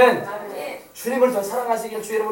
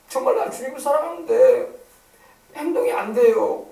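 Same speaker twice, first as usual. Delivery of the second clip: mock-tearful, higher-pitched confession; 4 semitones higher than usual. Peter admitting to the Lord his actions fail, tearful. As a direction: plead as if close to tears. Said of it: "베드로가 울먹이는 거야".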